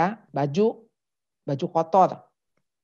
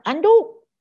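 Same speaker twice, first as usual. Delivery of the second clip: high, sharp call for a towel; mock shout, pitched way up; imitated yelling; 12 semitones higher, 6 dB louder, slower than usual. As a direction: call out like a kid shouting from the bathroom. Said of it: "kamu teriak".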